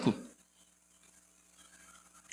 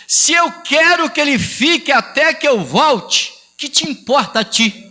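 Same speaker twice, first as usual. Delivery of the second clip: citando Jesus; 4 semitones higher than usual. Retold or imitated. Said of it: "Jesus fala assim pra Pedro".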